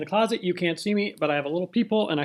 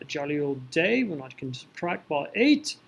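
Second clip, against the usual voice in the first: mock British accent. British accent joke returns.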